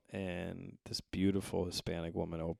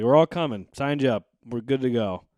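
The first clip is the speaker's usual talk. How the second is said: friend's insistence; 5 semitones higher, 13 dB louder than usual. Retold or imitated. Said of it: "He's like".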